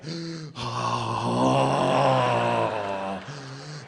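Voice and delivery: long gasp as after a marathon; long breathless gasp. Retold or imitated. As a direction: gasp for air, mocking breathlessness. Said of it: "out of breath".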